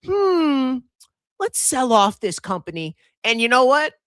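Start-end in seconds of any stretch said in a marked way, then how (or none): 0.0-3.0 high, slow, mock-thoughtful voice for the market; the market talking. Mocking the market's verdict, high and slow. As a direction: play the market weighing up a bad company. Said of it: "And the market says".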